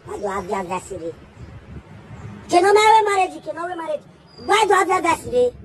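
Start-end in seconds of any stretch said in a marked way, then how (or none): 2.5-5.5 higher and louder, pressing the question on wé; Kí ló máa wé marriage thrown out loud and high with wé punched; louder emphatic retake. Acted. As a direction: push the whole question out louder, leaning on wé. Repeated line, then louder retake.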